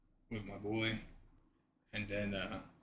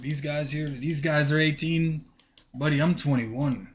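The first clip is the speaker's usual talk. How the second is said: indignant protest; 4 semitones higher, 7 dB louder than usual. Retold or imitated. Retelling his protest to coach.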